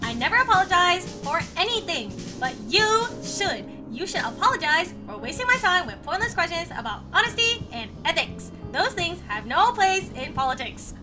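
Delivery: lightly voiced Trump accent with swooping stress. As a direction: lecture in a mock Trump accent. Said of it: "I do the Trump accent".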